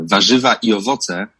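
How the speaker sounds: "Warzywa i owoce" said in native Polish; Polish pronunciation. Shown as a demonstration. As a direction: say "Warzywa i owoce" as a Pole would. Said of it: "How do you pronounce the original title?".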